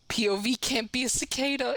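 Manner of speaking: breathy unvoiced whisper; confiding whisper to chat. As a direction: whisper it like a secret. Sudden whisper aside.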